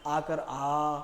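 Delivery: a hint of a mother's slow coaxing; mother coaxing child. Mother telling her child to open its mouth, lightly voiced. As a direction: slowly coax a child to open wide. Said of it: "तो उसकी mummy क्या बोलती है?".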